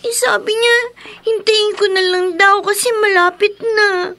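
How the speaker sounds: tearful, sobbing through words; crying child. Acted. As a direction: speak while crying. (umiiyak na bata)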